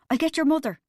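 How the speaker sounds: high, loud panicky squeak; panicked high voice. A narrator's reading. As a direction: squeak it out in alarm. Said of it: "he squeaked".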